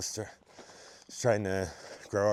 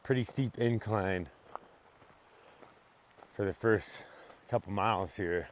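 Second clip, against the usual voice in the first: out of breath. Real, not acted. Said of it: "I'm a little winded already".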